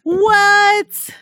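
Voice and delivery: high, loud shocked what. Real, not acted. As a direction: blurt it out in disbelief. Shocked reaction.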